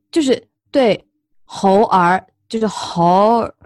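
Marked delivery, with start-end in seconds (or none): 1.4-3.5 猴儿 slow with a curled 儿; 猴儿 drawn out, tongue curled at the end; Beijing erhua. Shown as a demonstration. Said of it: "就是猴加儿".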